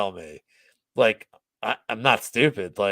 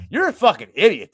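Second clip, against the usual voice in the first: louder, much higher retold taunt; in-his-face insult; 8 semitones higher, 8 dB louder than usual. Manager in the customer's face, loud high insult. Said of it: "I'm, like, in his face".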